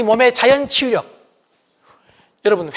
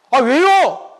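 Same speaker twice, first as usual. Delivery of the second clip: whiny, higher annoyed son; irritated teen; 6 semitones higher, 3 dB louder, much slower than usual. Retold or imitated. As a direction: talk back like a sulky teen. Son answers back. (짜증내며 대드는 아들)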